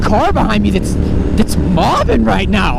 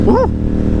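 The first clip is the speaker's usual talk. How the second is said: excited whoop; 13 semitones higher than usual. Real, not acted. Riding into tunnel.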